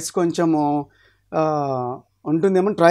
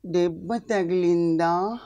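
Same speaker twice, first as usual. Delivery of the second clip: slow, lightly voiced female film heroine; a gentle caring woman, drawn out slowly; a hint of the actress tending a hurt man; Silk Smitha voice; 3 dB quieter, much slower than usual. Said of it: "silk Smitha dialogue".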